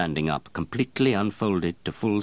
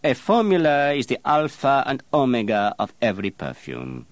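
stern; 7 semitones higher, 4 dB louder than usual. Acted. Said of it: "replied Baldini sternly".

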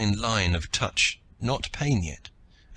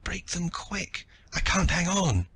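put-on high, slow, faint pleading child; thread of a voice; 10 semitones higher, slower than usual. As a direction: barely hold on as you beg. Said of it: "little thread of a voice".

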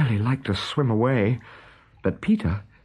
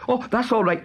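pirate voice; 13 semitones higher than usual. A narrator's reading. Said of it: "replied Smee".

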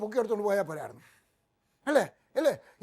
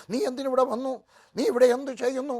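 higher, louder demanding ask; challenging question; 5 semitones higher, 5 dB louder than usual. Retold or imitated. Preacher voicing God's challenge to the listener, loud and demanding. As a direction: call them to account. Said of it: "എന്നിട്ട് ചോദിക്കുകയാണ്".

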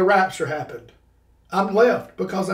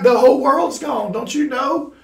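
higher, louder retold outcry, breaking into laughter; mock panicked wailing; 6 semitones higher, 5 dB louder than usual. Frantic kid telling the store man, mock panicked wail. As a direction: act out a kid's panic with amusement. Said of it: "And I'm wailing, crying".

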